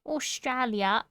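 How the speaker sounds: slow, cutesy mock Aussie; Australian uwu voice. Shown as a demonstration. Streamer retrying a hard accent, slow uwu Australian. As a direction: draw out an Australian accent, cutely. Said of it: "that's hard to do in an Uwu".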